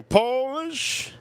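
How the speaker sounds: Polish jumps way up into a thin squeak; squeaky high repeat. Acted. Squeaky repeat after "dang.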